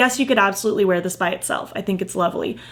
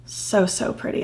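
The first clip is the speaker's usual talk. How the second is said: "so, so pretty" said much softer, fading out; soft, trailing off; 7 dB quieter than usual. Real, not acted. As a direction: let it drop to almost nothing. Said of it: "gushing over blush swatch".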